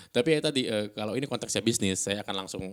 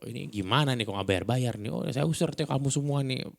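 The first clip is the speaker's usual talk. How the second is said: higher-pitched scolding, mild mock outrage; a touch of angry threat; mildly angry landlord; 3 semitones higher than usual. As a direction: act out an irate building owner, lightly. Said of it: "ya marah gitu loh".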